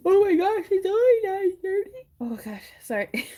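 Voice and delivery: laughing. Real, not acted. Laughing fit late at night.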